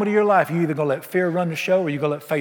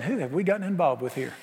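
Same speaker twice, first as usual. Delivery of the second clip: nervous aside; 7 dB quieter than usual. Acted. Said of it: "looking at each other saying".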